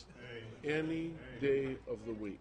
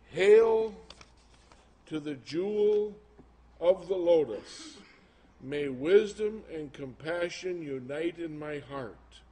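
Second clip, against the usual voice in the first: mock solemn; 2 semitones higher, 7 dB louder than usual. Reading mantra from prayer wheel leaflet.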